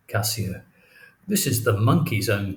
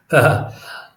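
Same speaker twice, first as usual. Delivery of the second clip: laughing; 4 dB louder than usual. Acted.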